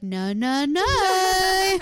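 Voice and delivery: singsong no rising to a loud, high stretch; mock refusal. Producers refusing a bachelor a dress hint, mock refusal.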